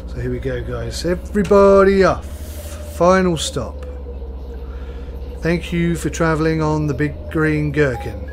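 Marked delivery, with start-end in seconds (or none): 1.0-8.3 bus driver announcement. Pretend. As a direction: call it out to the whole bus like a cheery driver. Bus driver announcing final stop.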